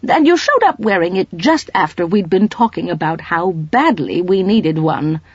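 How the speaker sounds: can't hold it in any longer; blurted. Acted. Mrs Polifax to the colonel, blurting it out. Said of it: "suddenly blurted out".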